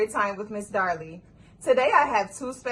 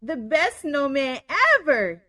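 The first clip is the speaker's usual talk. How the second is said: story narration. A narrator's reading. Reads story aloud.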